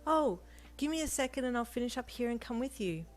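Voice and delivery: high, happy, eager reply. A narrator's reading. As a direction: offer cheerfully and eagerly. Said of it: "you replied happily".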